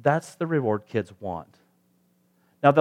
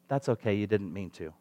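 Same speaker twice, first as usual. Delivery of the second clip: put-on soft, lower voice, retelling a child's reply; kid's forgiveness; 4 semitones lower, 6 dB quieter than usual. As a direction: gently imitate a child letting it go. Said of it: "which is kid talk for".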